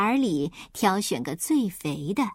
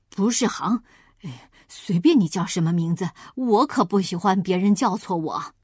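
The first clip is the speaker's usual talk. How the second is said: lower, firm wolf voice correcting; a big wolf, a little annoyed; gruff wolf; 3 semitones lower than usual. Acted. Wolf corrects the piglet, lightly lower and firm.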